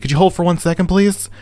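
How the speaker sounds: high, polite phone-rep voice; imitated receptionist. Rep asks caller to hold, imitated receptionist. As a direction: mimic a receptionist, pitched well up.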